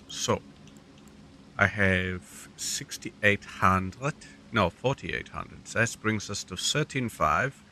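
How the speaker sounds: put-on, not entirely good German accent. Gamer narrating moves to foes and self, mock German accent. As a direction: play it with a hammy German accent. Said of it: "I don't know why I'm German".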